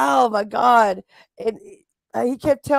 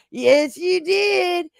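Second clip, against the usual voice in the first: higher, slowed mock insistence, louder on the jab; mock insistent Rebel; 4 semitones higher, 4 dB louder, slower than usual. Rebel insisting to Ruski he said it, hammed-up higher and slow. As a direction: imitate Rebel calmly needling him, pitched up. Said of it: "And Rebel was like".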